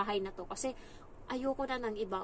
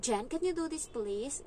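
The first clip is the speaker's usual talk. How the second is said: sing-song English; 4 semitones higher, slower than usual. Retold or imitated. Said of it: "mabilis siya mag-English na parang may tono na".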